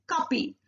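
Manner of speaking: "kapi" with a p sound instead of f; Korean-style "kapi", a clear p in the middle; Korean pronunciation. Shown as a demonstration. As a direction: say "kapi", coffee with the f turned to p. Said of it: "This fa we are not pronouncing in Korean".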